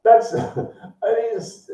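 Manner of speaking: high-pitched jeering rant; needling, worked-up high delivery; mocking taunt. Real, not acted. Taunting opponents with their assignment.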